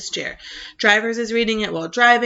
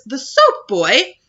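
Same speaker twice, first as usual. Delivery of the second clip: insistent, louder urging about the soap; pressing the point, a bit louder; excited father; 4 semitones higher, 6 dB louder, much slower than usual. Retold or imitated.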